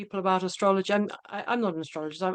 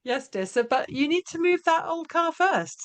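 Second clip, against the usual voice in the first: retold mum; 8 semitones higher than usual. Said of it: "but she says".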